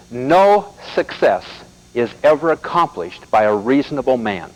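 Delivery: slow and deliberate, every word weighed; quoting Malcolm Forbes slowly; slow, weighty quote. Shown as a demonstration. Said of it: "Let me say it again".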